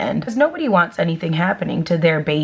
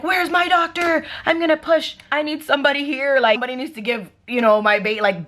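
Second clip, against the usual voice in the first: mild mock yell; 5 semitones higher than usual. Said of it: "I was screaming".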